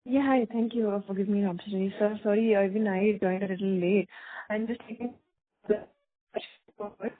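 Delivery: muffled and faint, as through a hand. Real, not acted. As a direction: voice muffled, like a covered mouthpiece. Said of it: "your voice is sounding muffled".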